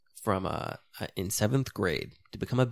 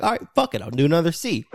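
fed-up outburst; 5 semitones higher, 6 dB louder, faster than usual. Retold or imitated. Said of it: "I'm like".

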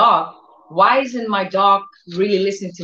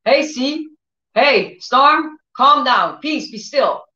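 commanding the storm; 5 semitones higher, slower than usual. Retold or imitated. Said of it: "speaking to the winds".

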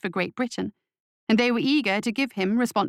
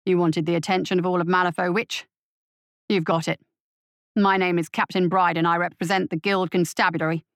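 defiant captain; 3 semitones lower than usual. Acted. Captain answering the witch in the street, low and defiant. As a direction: stand your ground, low and strong.

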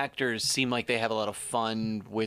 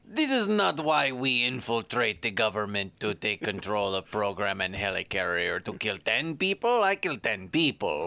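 Boris from Boris and Natasha. Acted. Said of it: "why are you talking like Boris from Boris and Natasha".

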